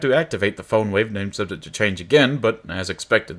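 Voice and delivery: lively, measured read-aloud of game text; story narration. A narrator's reading.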